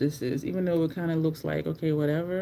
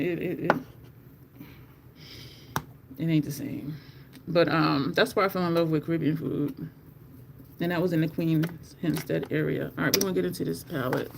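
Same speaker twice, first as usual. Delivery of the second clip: ordinary talk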